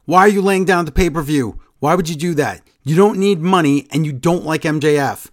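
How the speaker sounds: half-yell it like a telling-off, stressing the last line; retold yelling. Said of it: "then she yells at him and says".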